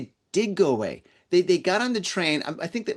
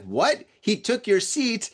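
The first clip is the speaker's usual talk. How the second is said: lightly imitated disbelief, slow and rising at the end; toned-down mock outrage in own accent; retold incredulous boyfriend; 6 semitones higher, slower than usual. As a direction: retell his challenge, stretched out and higher on the accusation. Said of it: "this guy's like".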